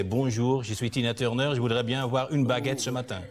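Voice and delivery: hammed-up French phrasebook French; showing off schoolbook French at the bakery. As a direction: rattle off tourist French quickly. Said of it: "not that fast and not exactly with that accent".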